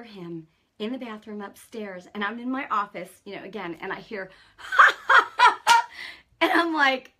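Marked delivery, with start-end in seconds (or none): 4.6-6.2 a loud, high burst of laughter from the other room. Retold or imitated. Husband laughs upstairs in bathroom.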